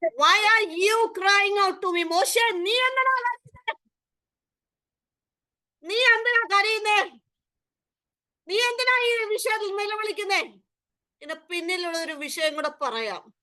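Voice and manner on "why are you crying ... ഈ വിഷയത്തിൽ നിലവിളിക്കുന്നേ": God questioning Moses. Acted. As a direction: voice God gently rebuking Moses. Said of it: "ദൈവം ചോദിക്കുന്നത്". (മോശയോട് ചോദിക്കുന്ന ദൈവത്തിന്റെ ഉയർന്ന, ഉറച്ച ശബ്ദം)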